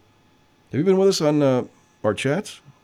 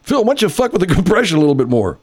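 sarcastic laughing jab; 6 semitones higher, 4 dB louder, faster than usual. Acted. Mock-quoting complaint at Phil.

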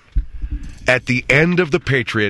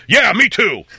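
high, loud eager yell; imitating the guy across the aisle cheering; mock enthusiastic shout; 8 semitones higher, 5 dB louder, slower than usual. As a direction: shout it like a delighted moviegoer. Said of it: "the guy sitting across the aisle from me goes".

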